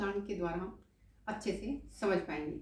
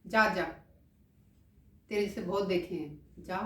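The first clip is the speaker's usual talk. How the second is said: dismissive; 3 dB louder than usual. Shown as a demonstration. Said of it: "इसी तरह से".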